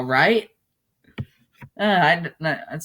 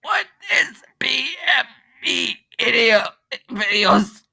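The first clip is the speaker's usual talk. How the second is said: whisper; 9 semitones higher than usual. Real, not acted. Puzzled aside to himself.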